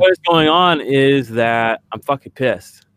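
slow, pressed-out frustration; biting off each word in anger; angry. Real, not acted. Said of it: "I'm triggered right now".

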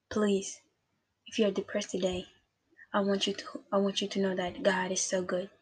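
soft, earnest plea; hushed, sincere reassurance; tender appeal. Real, not acted. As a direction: speak gently to someone who is hurting. Tender appeal to depressed listeners.

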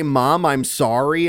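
put-on light Canadian accent, a bit slow. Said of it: "in a Canadian accent?".

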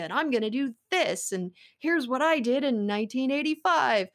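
lightly voiced barker, rising pitch; carnival barker. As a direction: sell it like a fairground pitchman. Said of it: "He talks like a carnival barker".

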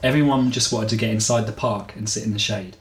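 measured audiobook-style reading; story narration. A narrator's reading. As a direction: read the story out evenly, phrase by phrase. Reads the chapter aloud.

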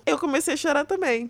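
high-pitched, through a laugh; laughing confession. Real, not acted. Mother confessing she cried too, laughing. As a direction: admit it while starting to laugh.

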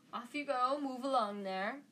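lightly projected, breezy dismissal; calling out. Acted. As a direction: shoo a crowd along cheerily. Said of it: "called to the crowd".

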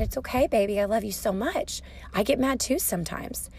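soft, gently retold comforting; tender reassurance. Mother forgiving her son who got mad, tender and reassuring. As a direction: soothe a child quietly.

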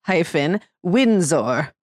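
put-on slow, lightly done posh British accent, drawn out; mock proper British accent. Asked by her co-host to say the baby's full name in a proper British accent. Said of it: "you need to say with a very proper accent".

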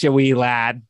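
a bad put-on Boston accent; mock Boston accent. Podcast host tries the beer name in a mock Boston accent. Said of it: "I just do a Boston accent".

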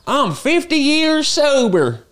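high, slow, drawn-out bragging voice; hammed-up proud milestone boast; imitating a sober influencer bragging; mock Instagram sober guy. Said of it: "be that guy who's on I G and be like".

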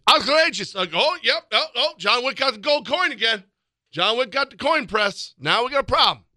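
high-pitched mock yell in an Eastern European accent; hammed-up Eastern European accent, pitched well up; angry Eastern European accent. Co-host spoofing a coach's rant as John Wick, mock-angry Eastern European accent. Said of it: "something about that accent yelling at you".

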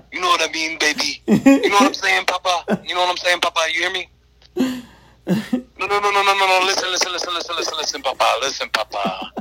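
high, sweet auntie voice calling out; doting auntie pleading, voice way up; Auntie Charlotte impression. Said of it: "imitation of our Auntie Charlotte".

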